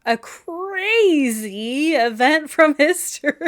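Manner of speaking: slow cartoon announcer, big stretched crazy; hammy old cartoon host, stretching out crazy; vintage cartoon voice. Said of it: "You said it like a cartoon".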